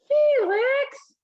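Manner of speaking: high sharp call of a name; mom yelling. Acted. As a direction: snap his name like an annoyed mother. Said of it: "yelled his mom".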